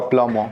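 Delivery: प्लम as "pla-mo", b and r silent; correct pronunciation. Shown as a demonstration. Teacher revealing the word to students, प्लम as "pla-mo". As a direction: say प्लम with an open final vowel. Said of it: "तो अब ये क्या होगा".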